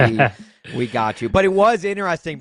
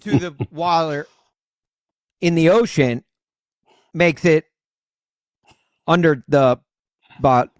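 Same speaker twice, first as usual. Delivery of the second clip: garbled speaker-box voice with a laugh; drive thru speaker voice; 3 semitones higher, 7 dB louder than usual. Acted. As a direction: talk like a crackly drive-through speaker. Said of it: "I've perfected the, uh, the drive-through voice".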